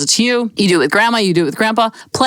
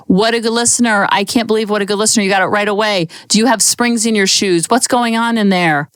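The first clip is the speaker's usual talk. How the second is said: flipping out. Pretend. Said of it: "you're flipping out".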